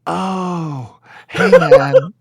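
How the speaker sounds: put-on high, loud drunk come-on; drunk guy voice. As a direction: squeal it like a sloppy drunk. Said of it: "He was like".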